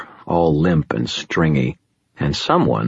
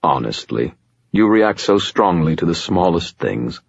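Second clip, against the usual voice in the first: soothing. Acted. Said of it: "his voice soothing".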